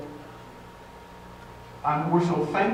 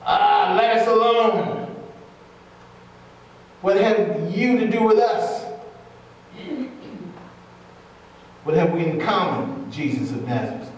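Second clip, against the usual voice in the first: demons crying out; 2 semitones higher than usual. Acted. Reading demons' words, louder.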